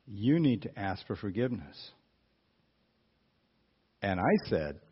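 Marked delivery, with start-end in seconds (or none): 0.1-1.9 measured, understated inner voice, slightly lower; Holy Spirit. Retold or imitated. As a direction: speak as a quietly insistent conscience. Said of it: "That was the Holy Spirit".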